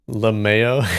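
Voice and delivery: Lamao said luh-MAY-oh; lamao pronounced. Shown as a demonstration. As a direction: answer with Lamao ending ay-oh. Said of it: "it's lamau".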